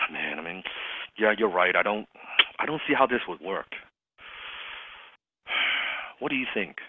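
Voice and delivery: soft, hesitant, deflated musing; sighing doubt. Retold or imitated. Closer letting the prospect do the convincing, sighing doubtfully. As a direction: sigh and sound unconvinced, with long pauses. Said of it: "I was sighing like crazy".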